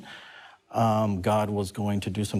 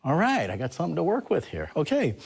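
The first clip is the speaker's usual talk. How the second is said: pleased; 7 semitones higher than usual. Retold or imitated. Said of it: "And I went".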